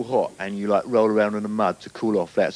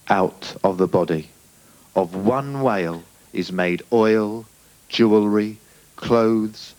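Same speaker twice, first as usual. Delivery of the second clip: slow, solemn poetry recital; poem reading; slower than usual. Acted. Comic reads a conservation poem, solemnly slow. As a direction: intone each word like a serious poet. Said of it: "I'd like to be reading now from".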